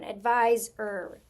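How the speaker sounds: ADVISOR slow, ending set apart as "er"; stretched out. Shown as a demonstration. Teacher testing another spelling, stretched out. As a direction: draw out ADVISOR by syllables. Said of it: "when I'm stretching through it".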